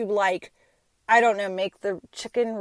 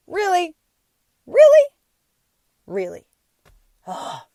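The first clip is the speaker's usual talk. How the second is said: exasperated disbelief; 10 semitones higher, 9 dB louder than usual. Retold or imitated. Wife's exasperated reaction.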